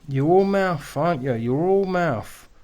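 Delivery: goading a loudmouth heckler, loud and scornful; loud taunt. Real, not acted. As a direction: jeer right at him across the room.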